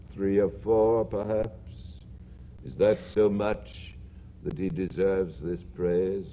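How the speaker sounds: a calm, distant spirit; ghost voice. Acted.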